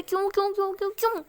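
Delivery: high, loud anguished yells; shouting. Acted. Aashi screams at the friend she can't stop loving, anguished shout. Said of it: "ज़ोर से चिल्ला के बैठ जाती है".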